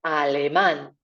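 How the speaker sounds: alemán with the last á stressed, a-le-MAN; stress on the final a. Shown as a demonstration. Teacher repeating alemán with its stress on á. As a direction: hit the á at the end of alemán. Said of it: "Accent on the A".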